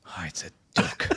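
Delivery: unsurprised. Retold or imitated. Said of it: "He wasn't even that surprised".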